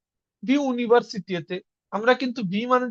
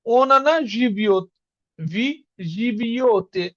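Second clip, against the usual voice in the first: slow demo; much slower than usual. Shown as a demonstration. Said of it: "সবসময় একটা ইও টান থাকবে".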